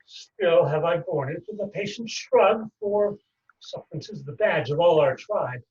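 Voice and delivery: measured stage delivery of a wronged moneylender; stage verse with long pauses; Shylock monologue. Acted. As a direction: play an aggrieved Shylock, lightly voiced.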